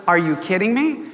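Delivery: mildly indignant retort; kind of upset. Retold or imitated. Jesus upset at disciples turning children away, mildly indignant. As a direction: imitate a touch of indignation. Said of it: "He, he kinda was upset".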